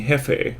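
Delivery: "Jefe" said HEH-feh, Spanish way; Spanish "Jefe" with a breathy H; Spanish pronunciation. Shown as a demonstration. Teacher showing how Spanish speakers say "Jefe". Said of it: "which means boss".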